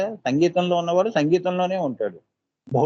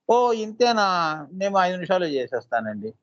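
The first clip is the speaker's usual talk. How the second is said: boastful quote; 3 semitones higher than usual. Retold or imitated. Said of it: "అని చేసి చూపిస్తావు".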